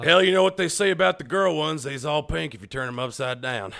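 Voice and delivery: hammed-up hillbilly voice; mock redneck. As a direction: tell the crude joke as a redneck. Hick character joke voice.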